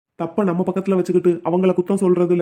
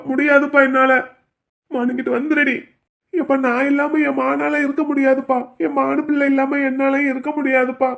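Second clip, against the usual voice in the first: higher, choked pleading with his father; tearful pleading; 5 semitones higher than usual. Acted. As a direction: beg him not to ask this, close to tears. Son begs father, refusing. (அழுகையுடன் கெஞ்சுதல்)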